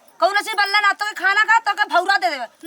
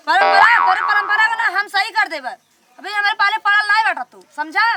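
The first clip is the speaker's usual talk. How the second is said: raised, threatening scold; angry wife; 3 semitones higher than usual. Acted. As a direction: cut him down hard.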